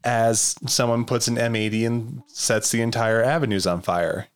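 lightly hushed, calming politician voice; a hint of a soothing official speaking; library voice. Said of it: "I like your library voice".

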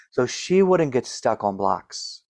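slow breathy starlet voice; Marilyn Monroe voice. Shown as a demonstration. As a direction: glide the words out the way Marilyn Monroe did. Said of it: "she talked like this".

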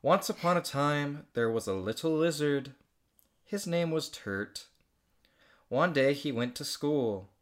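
slow storybook reading; story narration. Acted. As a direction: read it like a children's book. Reads her childhood story aloud.

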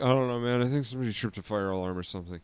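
a hint of a spaced-out stoner. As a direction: mumble it like a dazed stoner. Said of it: "he sounded like that".

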